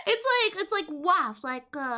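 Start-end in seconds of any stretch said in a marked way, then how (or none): 0.9-1.4 "waff" as the French dog bark; French woof. Shown as a demonstration. Streamer explaining French barking to chat, French woof. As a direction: say "waff" as one short French-style woof. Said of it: "That's how you say woof in French".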